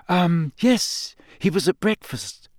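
put-on a clever girl reasoning it out; Hermione voice. A narrator's reading. Hermione hesitating.

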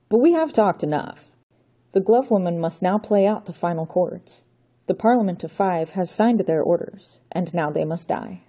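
a hint of a theatrical count gloating; storybook villain declaiming doom; villainous Count. Count Otto's villain speech.

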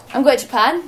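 proud announcement at the dinner table; excited announcement. Retold or imitated. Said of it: "and I went".

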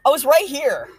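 high, loud playful ribbing; teasing high voice. Real, not acted. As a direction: tease him from the car. Teasing friend after running.

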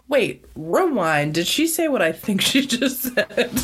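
slow, stunned retelling; slow down as if you can't believe it; mock disbelief. Viewer retells stopping the tape in shock, slow disbelief. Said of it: "I was like".

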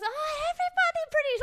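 very high, loud, sing-song auntie voice; comic impression of an old lady waving her off; mock Korean auntie. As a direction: squeal it out like a dismissive church auntie.

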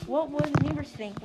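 an outraged mother dragon roaring at her husband. Acted. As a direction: bellow it at the father. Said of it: "roared his mother".

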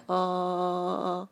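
long monotone "uh" drone; mock a toneless, droning line reading; 模仿念经式台词. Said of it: "就是一直在那念". (拖长的平直单音，模仿没有起伏地念)

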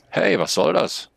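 indignant snail call. A narrator's reading. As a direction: snail protests as the laptop is shut. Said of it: "ruft die Schnecke". (empörter Ausruf der Schnecke)

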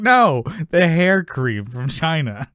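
lightly acted exasperated objection; imitating exasperated Jerry. Retelling Jerry correcting George, mock exasperated. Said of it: "And then Jerry's like".

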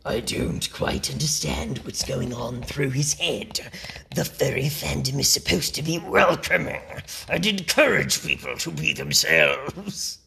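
low, menacing demon voice. Shown as a demonstration. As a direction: read it like a growling demon. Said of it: "this is when I go into my demon voice".

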